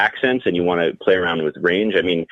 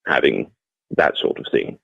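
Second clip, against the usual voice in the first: low-pitched, proper British English; British, lower in the voice; proper British accent; 4 semitones lower than usual. Shown as a demonstration. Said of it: "doing the proper British".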